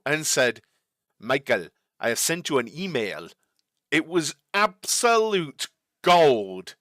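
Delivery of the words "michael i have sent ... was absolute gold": a hint of the Austrian team boss; light Austrian accent. Streamer quotes Toto on the radio, light Austrian accent. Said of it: "I will try and do, uh, the accent".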